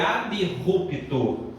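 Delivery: "abrupto" as ab-rupto, guttural r; correct pronunciation. Shown as a demonstration. Teacher repeats the warning, "abrupto" as ab-rupto. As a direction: keep b apart from r in "abrupto". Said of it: "a pronúncia é".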